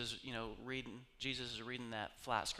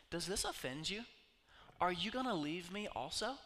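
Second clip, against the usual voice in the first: calm, unmoved; 4 semitones higher than usual. Retold or imitated.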